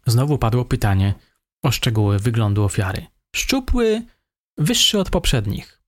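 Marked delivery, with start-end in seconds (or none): 3.4-5.8 higher, meek voice of the suspect. A narrator's reading. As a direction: play the timid young killer, higher. Suspect describes victim.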